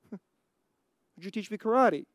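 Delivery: put-on a teasing slow retake of the kid's request; laughing mock plea. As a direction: repeat the boy's plea, drawn out and chuckling. Daniel's plea repeated with laughter.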